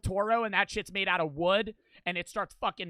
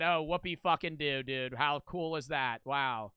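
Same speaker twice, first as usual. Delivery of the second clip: sarcastic. Retold or imitated. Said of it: "And I said".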